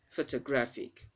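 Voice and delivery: "photographic" as "foh-tuh-GRAF-ik"; weak "uh" in the second syllable of "photographic"; schwa pronunciation. Shown as a demonstration. Teacher modelling the word for learners, schwa pronunciation. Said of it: "don't pronounce that O".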